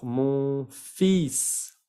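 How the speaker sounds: "Mon fils" as "mon feess"; silent L demo. Shown as a demonstration. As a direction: say "Mon fils" deliberately, S sounded. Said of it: "la L no se pronuncia".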